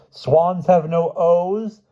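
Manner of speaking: very high, slow protest; drawn-out, high-pitched pleading; imploring Hyde. A narrator's reading. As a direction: protest it slowly at the top of your register. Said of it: "Hyde implored".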